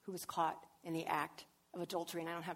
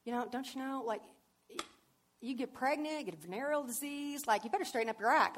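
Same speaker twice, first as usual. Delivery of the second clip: scolding; 2 semitones higher, 4 dB louder than usual. Retold or imitated. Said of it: "He wasn't like".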